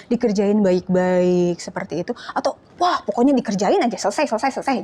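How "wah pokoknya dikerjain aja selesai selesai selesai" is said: fast, hurried mock student; rushing. Student rushing through an exam, fast. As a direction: rattle it off to be done. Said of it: "Kamu buru-buru ngerjainnya".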